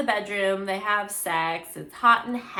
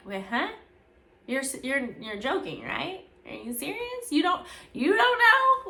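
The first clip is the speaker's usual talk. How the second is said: incredulous; 5 semitones higher than usual. Retold or imitated. Rakaya laughs at straight claim.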